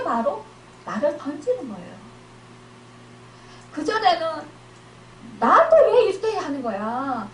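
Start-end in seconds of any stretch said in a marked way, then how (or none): 5.4-7.3 mild resentful complaint. Acted. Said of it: "이러면서 상대방을 원망했다면".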